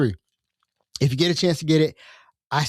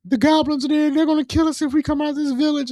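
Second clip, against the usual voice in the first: character's own voice; 14 semitones higher than usual. Retold or imitated. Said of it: "And I'm like".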